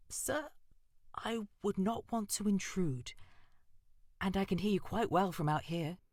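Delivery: a frightened mouse keeping her distance; timid. Acted. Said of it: "she said timidly".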